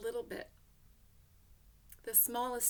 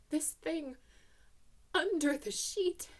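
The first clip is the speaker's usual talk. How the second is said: usual speaking voice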